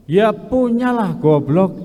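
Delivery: rude retort. Retold or imitated. Old man rudely answering Saint Peter at heaven's gate. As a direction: drawl out the answer and spit out goblok. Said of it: "sering ngomong kasar".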